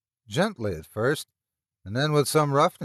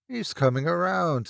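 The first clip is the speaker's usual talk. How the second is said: a smug, smirking aside; 6 semitones higher than usual. Acted. Meagle smirking at the doubter, smug. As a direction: let the smirk into it. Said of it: "said Meagle with a smirk".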